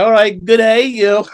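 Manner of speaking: playful imitation of an Aussie greeting; Aussie accent. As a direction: toss off a cheery "good day" like an Aussie. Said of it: "best accent, he goes".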